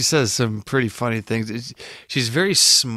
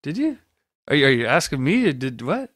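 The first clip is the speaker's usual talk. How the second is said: baffled; 3 semitones higher, faster than usual. Retold or imitated. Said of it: "It's like".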